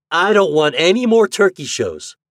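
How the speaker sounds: high, loud protest; emphatic refusal. A narrator's reading. Boy turning down the well-dressed man, emphatic refusal. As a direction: refuse flatly and forcefully.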